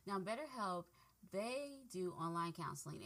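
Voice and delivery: ordinary delivery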